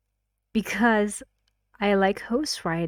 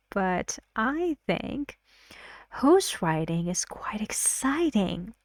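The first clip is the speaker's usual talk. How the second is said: "I" raised and slowed, "exciting" leaned on; stress on exciting. Shown as a demonstration. Teacher shows students stress on exciting. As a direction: lean on "exciting" to show it is the key word. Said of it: "I make the word exciting more stressed".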